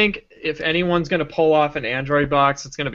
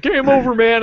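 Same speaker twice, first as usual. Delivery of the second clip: mock yell; 8 semitones higher, 5 dB louder than usual. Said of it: "a bunch of screaming".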